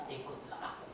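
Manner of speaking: very soft, low, nearly whispered; hushed command. A narrator's reading. Preacher voices Jesus calling Peter to follow, hushed. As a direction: drop to a hush for the solemn call.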